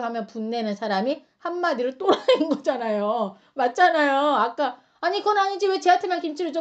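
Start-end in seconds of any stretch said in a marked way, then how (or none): 5.0-6.6 mock indignant whine. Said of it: "막 이랬던 사람이".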